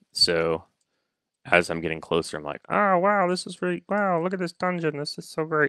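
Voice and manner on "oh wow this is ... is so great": very high, nerdy, gushing dorky elf voice. Game master showing how drow sound in his campaign, dorky drow voice. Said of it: "That's how all drow sound in my campaign".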